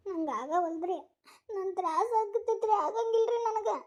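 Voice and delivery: high, drawn-out wail of pain; acted agony of childbirth, slow and high; labour-pain wail. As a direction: wail that you cannot bear it, stretching the words. Woman in labour says she can't.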